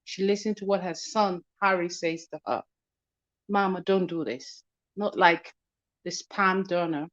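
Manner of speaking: choppy phone line; call dropping out. Real, not acted. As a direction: voice cutting out over bad connection. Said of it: "you're breaking up a little bit".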